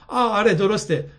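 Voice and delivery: high-pitched, mock-surprised "oh, right"; feigned surprise. A narrator's reading. Girl pretending to remember the token she owes, feigned surprise. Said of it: "با نگاه تعجب دروغین نگاهی به او انداخت".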